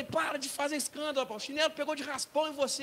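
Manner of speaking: scolding father. Acted. Father scolds crying son, retold.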